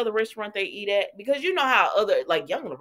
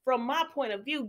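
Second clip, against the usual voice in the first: eager agreement; 7 semitones higher than usual. Retold or imitated. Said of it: "he was like".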